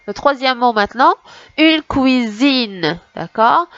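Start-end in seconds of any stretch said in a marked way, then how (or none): 1.6-3.0 "une cuisine" slowly stretched out; word by word. Shown as a demonstration. Teacher repeating the third word for children, slowly stretched "cuisine". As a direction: draw out "cuisine" for learners. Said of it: "on va recommencer mot par mot".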